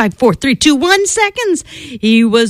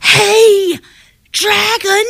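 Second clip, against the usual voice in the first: much higher, loud call into his ear; shouted; 11 semitones higher, much slower than usual. Acted. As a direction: yell to wake him. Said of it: "She shouted as loud as she could".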